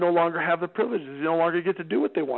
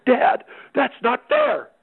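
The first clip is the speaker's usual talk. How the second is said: put-on whiny teen protest; 8 semitones higher, 4 dB louder, much slower than usual. Son protests losing pyramid piece.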